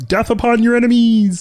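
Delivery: high-pitched, loud, puppet-style voice. Riffing on how a line would sound; Kermit the Frog voice. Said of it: "Just hearing Kermit speak like that is disturbing".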